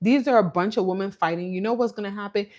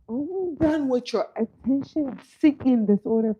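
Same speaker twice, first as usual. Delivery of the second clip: raised-pitch mock scolding; exasperated mom; 5 semitones higher than usual. Mom mocking Wendy's behavior, exasperated. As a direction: imitate a mother fed up with her daughter.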